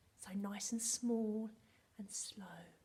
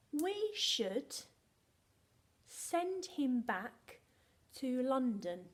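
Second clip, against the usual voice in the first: slow, louder, word-by-word delivery; teacher's model sentence; 3 semitones higher, 4 dB louder, much slower than usual. Shown as a demonstration. Teacher models the sentence for pupils to repeat, slow and deliberate. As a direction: spell out each chunk for young children. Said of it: "Can you say that with me?".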